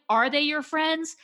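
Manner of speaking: slow, high incredulous question; skeptical question. Retold or imitated. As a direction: doubt every word of it. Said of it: "I'm like".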